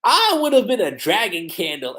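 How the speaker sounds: mildly upbeat acted boast; cheerful. Natsu happily answering the others, cheerful. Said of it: "Natsu being so cheerful and happy".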